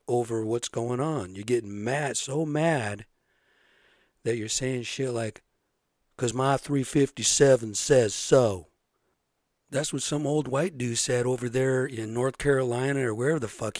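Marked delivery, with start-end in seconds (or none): 6.2-8.7 slower, louder, a hint of an angry old man; mock angry old man. Retelling an old white dude in North Carolina, mild mock anger. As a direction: imitate the pissed gun owner with a mild, drawn-out growl. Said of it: "And he was pissed".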